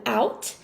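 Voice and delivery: "out" modelled plainly after the vowel; calm, clear "out"; syllable said again. Shown as a demonstration. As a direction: repeat the first syllable "out" for the class. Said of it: "I'm going to pronounce that first syllable".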